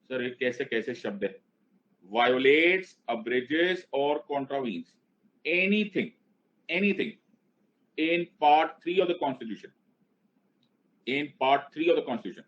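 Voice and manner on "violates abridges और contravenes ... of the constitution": very slow, drawn-out phrases; deliberate chant with pauses between phrases; dictation for repeating. Shown as a demonstration. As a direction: stretch each legal term for the class to echo. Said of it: "उसको बोलना start करो".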